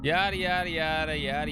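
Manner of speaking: high, odd cartoon voice; sing-song silly alien voice; Conehead voice. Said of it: "the Conehead voice again".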